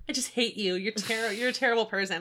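said through a big smile; smiling while mean. Shown as a demonstration. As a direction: grin while saying mean words. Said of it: "smile really big and then be like".

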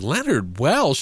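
slow, questioning repeat of the name; lightly acted incredulous question; retold disbelief. Boy hears who asked her to prom, mild disbelief.

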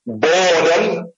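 boredom drawn out slowly, rising at the end; emphasis on boredom. Real, not acted. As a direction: lean on boredom and stretch it. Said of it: "I put emphasis on the word boredom".

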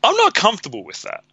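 high-pitched uncomfortable protest; put-on uneasy voice, high; uneasy reaction. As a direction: act out someone squirming, pitched well up. Acted reaction of an uneasy person.

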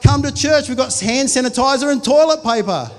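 jokey church ad pitch; mock church advert. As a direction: sell it like a cheesy commercial.

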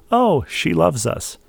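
high, drawn-out gushing delight; mock exclamation. Host voicing a listener's twelve-year-old daughter, mock exclamation. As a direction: exclaim it like a thrilled child, stretched out. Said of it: "Our twelve-year-old even exclaimed".

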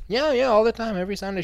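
sing-song sanctimonious; mock pious answer. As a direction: oversell your devotion. Mocking churchgoer answer.

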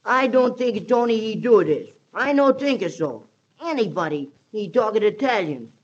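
lightly faked Italian accent in broken English. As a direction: put on a playful Italian accent. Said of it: "it's not hard to fake an Italian accent. Gosh, I can do that myself".

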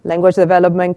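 normal talking voice

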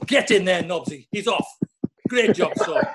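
gleeful mock cheer with a laugh; laughing taunt. Teammate laughing at the bleeding centre half. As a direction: cheer him on through a laugh. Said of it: "all I can hear is Smudge going".

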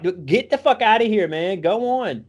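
high-pitched mock exasperation; retold yelling. Boys order the sick kid out, mock yelling. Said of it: "we're all yelling at him".

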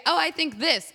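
high, mock ditzy suggestion; imitating the agreeable girls; airy girl voice. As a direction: play it light and vapid. Mimicking the girls.

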